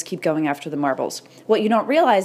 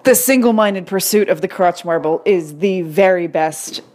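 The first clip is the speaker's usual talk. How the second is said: composed and louder, deliberately serious; straight face; 5 dB louder than usual. Shown as a demonstration. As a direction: say it dead serious this time. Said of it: "I can't even say it with a straight face".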